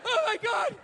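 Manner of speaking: hammed-up dieting despair; miserable dieter. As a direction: act out a starving actor's misery. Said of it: "You know".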